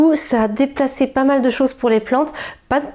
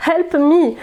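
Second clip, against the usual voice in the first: laughing plea; 7 semitones higher than usual. Real, not acted. The cat climbs onto the plants.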